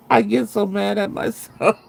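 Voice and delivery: real giggle while admitting it; amused laugh breaking into the line. Real, not acted. Laughing at her own habit.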